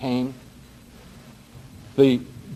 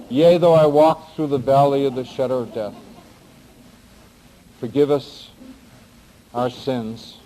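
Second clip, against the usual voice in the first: jumbled half-remembered prayer. Retold or imitated. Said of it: "Something like this".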